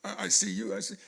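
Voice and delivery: plaintive, faltering plea, retold; retold crying. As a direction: imitate a child still crying to mama. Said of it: "So I'm still crying".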